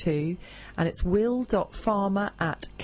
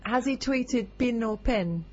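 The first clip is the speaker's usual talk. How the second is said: put-on New Zealand accent; 4 semitones higher, slower than usual. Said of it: "a very nice New Zealand accent".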